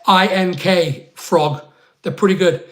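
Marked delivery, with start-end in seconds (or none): 0.0-1.6 letters spelled out slowly, I N K then Frog. Shown as a demonstration. Spelling the shop name out for his viewers, slow. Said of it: "yeah, Ink Frog".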